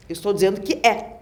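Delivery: firm, insistent assertion; incisive intonation. Shown as a demonstration. Southerner insisting to the listener, incisive. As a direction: state it incisively, leaving no room for doubt. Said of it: "uma entonação mais incisiva".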